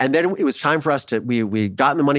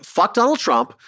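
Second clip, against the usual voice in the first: triumphant exclaim; 9 semitones higher, slower than usual. Retold or imitated. Celebrating on call to producers.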